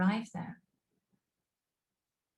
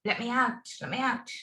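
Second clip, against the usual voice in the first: mock angry shout; 4 semitones higher, 4 dB louder than usual. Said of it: "shout with anger now".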